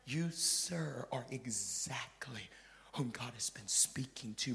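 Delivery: hushed, soft confiding voice; whispered preaching. Acted. Preacher drawing the congregation close, soft whisper. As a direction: lean in and breathe it to them.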